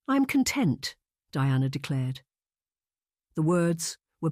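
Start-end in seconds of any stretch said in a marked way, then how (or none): 0.1-1.0 high, brittle denial; forced contentment. Acted. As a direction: Diana insists to her friend she is fine, pitched high. Diana denying her worry.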